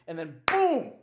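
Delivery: normal talking voice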